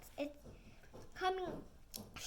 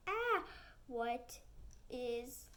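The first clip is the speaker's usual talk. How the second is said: shriek; much slower than usual. Acted. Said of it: "Penny shrieks".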